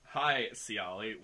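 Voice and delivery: drawn-out knowing greeting, very slow; slow flirty wink. Acted. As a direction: stretch it out like a wink.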